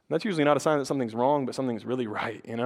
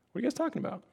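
high, soft, offhand question; casual Jesus; 8 semitones higher, 8 dB quieter, much faster than usual. Acted. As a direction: pop in lightly with a quiet, higher voice. Jesus casually pops in, voiced gently.

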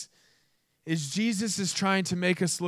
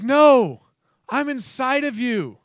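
higher, punched NO, then steadier; firm correction; 4 semitones higher, 5 dB louder, slower than usual. Acted. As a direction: cut off the coddling with an emphatic reply. Acts God's firm correction.

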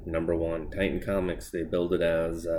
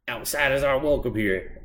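mock solemn greeting; 7 semitones higher, 3 dB louder than usual. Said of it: "she's just like".

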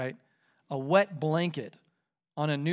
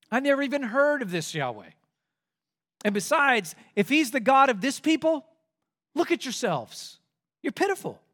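higher, sneering king; mocking Pharaoh; 5 semitones higher than usual. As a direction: belittle the slaves. Pharaoh mocks the slaves.

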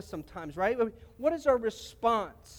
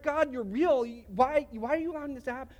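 questioning God; 5 semitones higher than usual. Retold or imitated. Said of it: "Or if".

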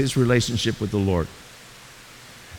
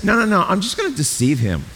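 scheming Satan; 4 semitones higher, faster than usual. Retold or imitated. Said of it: "Satan says".

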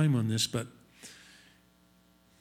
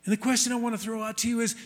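normal talking voice

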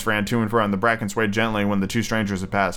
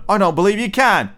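high-pitched challenge in character; doubting furry rabbit; 8 semitones higher, 4 dB louder than usual. A narrator's reading. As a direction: goad the other rabbit, pitched up.

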